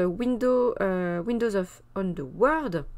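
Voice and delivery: a hint of an English accent on Windows on the World; French speaker's mild English accent on an English title; self-mocking English accent. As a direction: try an English accent on the title, a little awkwardly. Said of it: "avec mon plus bel accent anglais".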